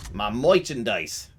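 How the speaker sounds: high, slow, loud "merchandise" stretched out; imitating Mona. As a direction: drag out "My merchandise" in mock outrage. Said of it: "And she says it like that".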